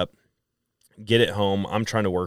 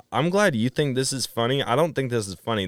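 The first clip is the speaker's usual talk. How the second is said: higher-pitched, indignant retort; acted indignation; 6 semitones higher than usual. Son scolding his laughing dad over the chickens, indignant. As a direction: retell telling someone off, pitch raised.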